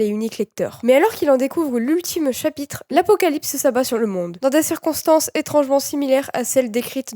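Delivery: measured read-aloud of a book blurb; synopsis reading. A narrator's reading. Vlogger reads the webtoon's synopsis to viewers, measured narration.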